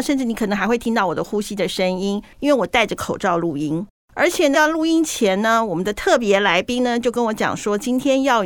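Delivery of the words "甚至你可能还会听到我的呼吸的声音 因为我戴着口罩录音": muffled behind a face mask; talking through a face mask, foggy sound. Real, not acted. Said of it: "二姐的声音感觉上有一点雾雾的呢".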